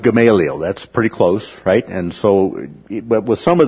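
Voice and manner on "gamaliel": Gamaliel said ga-MAY-lee-el; proper name pronunciation. Shown as a demonstration. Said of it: "the pronunciation of the name is".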